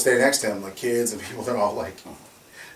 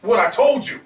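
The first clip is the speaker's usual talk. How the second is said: higher, louder taunting thug; mock tough guy; 9 semitones higher, 4 dB louder than usual. Released attacker taunting the officer, mock tough guy. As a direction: sneer it like a cocky thug. The guy came back and was like.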